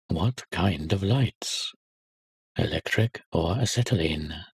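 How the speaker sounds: put-on slow, each word spelled out for a bewildered boy; slow impatient repeat. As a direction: repeat the question slowly and pointedly. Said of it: "The little boy is bewildered".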